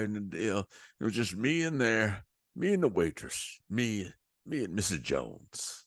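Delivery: lightly voiced smooth seventies DJ intro, slowing at the end; a hint of a cheesy radio host setting up the song; mild imitation of a DJ easing into a record. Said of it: "this is what he said".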